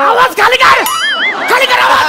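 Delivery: high, sharp shout; hot-tempered comic command; angry order. Acted. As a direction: shout them down. Orders conductor to lower voice.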